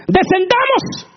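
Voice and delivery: high, loud and slow descendamos; drawn-out mock divine call. Preacher drawing out God's Descendamos, slow and grand. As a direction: stretch Descendamos grandly and slowly. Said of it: "Y dice".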